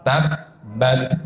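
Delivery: "Tabbat" with the first b stopped dead, a silent break, then bat; cut-off b. Shown as a demonstration. Teacher shows students the correct reading, cut-off b. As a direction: close the lips on "Tabbat" and cut the sound before bat. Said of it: "harus diputus".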